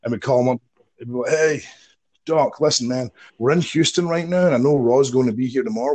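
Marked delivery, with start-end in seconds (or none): 1.3-6.0 acted-out friendly pitch, pitched up; eager phone pitch. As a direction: imitate yourself hustling a contact by phone. Acts out pitching phone call for work.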